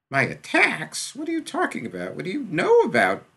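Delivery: a very high, loud, startled outburst; alarmed boy. Acted. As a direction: caught off guard and defensive. Kid alarmed by diagnosis.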